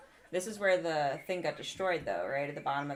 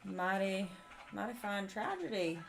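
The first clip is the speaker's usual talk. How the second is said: put-on country accent; 2 semitones higher than usual. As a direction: play it with a folksy country accent. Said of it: "your country accent".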